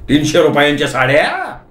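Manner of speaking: shocked question with a rising end; almost shouting. Acted. Husband hearing the price of sarees, aghast near-shout. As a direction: echo it in disbelief, near a mild yell. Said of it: "मी जवळजवळ ओरडलो".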